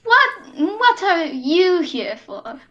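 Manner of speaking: slow, wary question with a stumble; hesitant. Acted. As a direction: hold back, unsure of the stranger. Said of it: "he kind of visibly hesitates".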